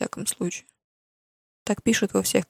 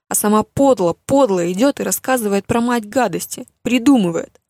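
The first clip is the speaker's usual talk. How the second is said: ranting mother; 6 dB louder than usual. Acted. Mother mocking Lia's book and dreams, loud contempt. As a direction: pile the scorn on, louder and louder.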